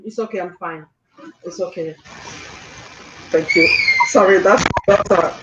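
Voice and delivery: holding back sobs while apologising; crying. Real, not acted. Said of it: "Don't cry".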